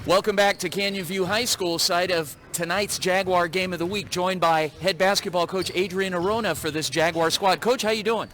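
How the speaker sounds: loud, projected broadcast voice over the gym; big TV host voice pitched to carry; sideline reporter. Acted.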